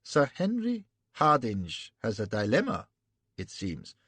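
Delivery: a touch of musing; mild thoughtful German prince. Acted. Prince musing aloud, mildly thoughtful. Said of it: "says thoughtfully".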